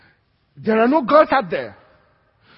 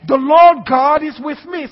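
louder, higher declaration; proclaiming; 5 semitones higher, 9 dB louder than usual. Shown as a demonstration. Preacher gives congregation a line to repeat, louder and higher. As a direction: ring it out for the church to echo. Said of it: "Say it with me".

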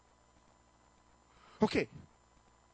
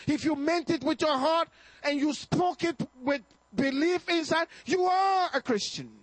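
climactic shout; 6 semitones higher than usual. Real, not acted. Preacher declaring to new believers. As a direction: land it on are.

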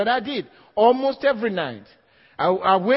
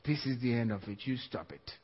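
commanding; 9 semitones lower, 12 dB quieter than usual. Retold or imitated. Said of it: "I said".

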